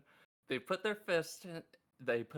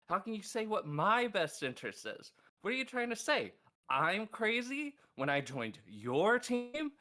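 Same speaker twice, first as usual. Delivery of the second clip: indignant outburst; 6 semitones higher, 4 dB louder than usual. Retold or imitated. Sawyer confronting Cherry and Sunbeam, indignant and loud. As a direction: demand to know who they think they are. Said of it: "And I go".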